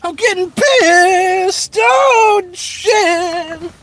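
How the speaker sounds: high, loud, slow squealing yell; mock angry shout. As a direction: blow up in a cartoon rage. Mock outburst in silly voice.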